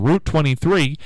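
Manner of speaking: Route said as "root"; "root" pronunciation. Shown as a demonstration. Host imagining someone giving directions, Route as "root". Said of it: "some people say".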